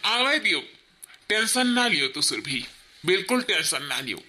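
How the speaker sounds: low, slow, hushed sweet-talking lover; scheming lover. Acted. Lover calms the crying wife and plots against her husband, low sly coaxing. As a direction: coax her while plotting, low and sly.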